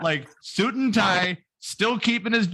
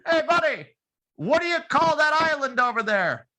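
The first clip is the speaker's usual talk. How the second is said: Italian guy; 10 semitones higher, 3 dB louder than usual. Retold or imitated. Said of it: "He says".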